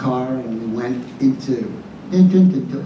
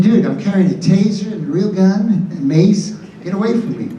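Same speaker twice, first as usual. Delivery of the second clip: mock warning through a laugh, higher; laughing retort; 5 semitones higher than usual. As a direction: brush the fans off, half laughing. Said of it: "I said".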